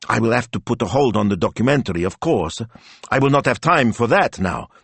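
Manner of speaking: fast, eager planning; excited. Acted. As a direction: rush through the plans.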